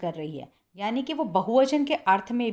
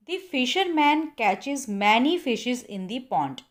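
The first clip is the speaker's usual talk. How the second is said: slow wrong example; 4 dB louder, much slower than usual. Shown as a demonstration. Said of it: "ये sentence बिल्कुल गलत है".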